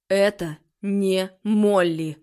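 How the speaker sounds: slow, loud, commanding declaration; stern loud proclamation, every word weighted; said loudly. A narrator's reading. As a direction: call it out firmly to unmask the thing. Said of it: "произнёс маг громко".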